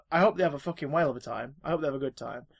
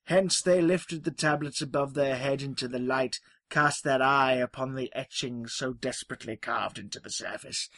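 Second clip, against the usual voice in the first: epic storyteller voice. Pretend. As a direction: tell it like an ancient saga. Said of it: "I need a voice".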